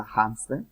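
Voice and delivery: "hamster" begun with a Spanish J sound; "hamster" said like "jamster"; aspirated H. Shown as a demonstration. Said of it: "es igual".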